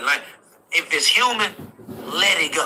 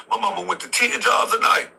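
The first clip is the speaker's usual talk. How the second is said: shouting; 7 semitones higher than usual. Real, not acted. Heated rant about mama.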